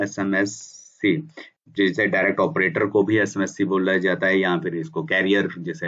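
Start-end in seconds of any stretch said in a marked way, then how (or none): 0.0-1.2 slow term demo. Shown as a demonstration. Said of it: "कई लोग एसएमएससी भी बोलते हैं".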